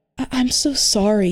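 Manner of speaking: timid, shy, bashful voice. He apologizes to the narrator on first meeting: shy voice. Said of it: "he said in a shy voice".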